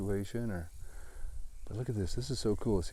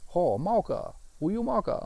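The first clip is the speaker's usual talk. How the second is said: local calling out; 9 semitones higher than usual. Retold or imitated. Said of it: "Someone's like".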